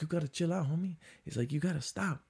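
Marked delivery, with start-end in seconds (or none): 0.0-1.0 soft, higher-pitched imitated calming; lightly voiced peacemaker talking a man down; calm Puerto Rican guy. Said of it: "he's, like, super calm". 1.5-2.2 soft, higher-pitched imitated calming; lightly voiced peacemaker talking a man down; calm Puerto Rican guy. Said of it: "he's, like, super calm".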